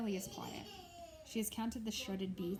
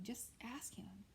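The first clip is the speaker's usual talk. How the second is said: 1 hushed plea; 3 semitones higher, 9 dB quieter, slower than usual. A narrator's reading. Boy pleading quietly with warden.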